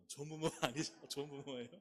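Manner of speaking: loud question through real laughter; laughing. Real, not acted. Preacher teasing congregation about instant-noodle parents, laughing loudly. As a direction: laugh as you press the question.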